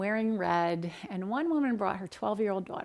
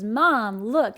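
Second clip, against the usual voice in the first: excited little son; 7 dB louder than usual. Retold or imitated. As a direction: call out to mom like an excited child. Voicing her small son in a story.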